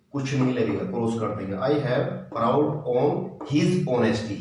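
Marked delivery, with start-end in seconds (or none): 1.6-4.4 slow dictation. Shown as a demonstration. Teacher reading completed answer to the class. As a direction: read very slowly, his stressed. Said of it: "his आएगा, his honesty".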